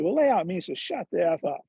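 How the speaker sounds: put-on hick-accented trainer laying down a rule; Charlie Reimer's hick accent. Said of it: "he's got this hick accent".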